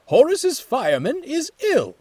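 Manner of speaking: high loud call. A narrator's reading. Manager calling to Jones, loud. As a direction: announce across the yard.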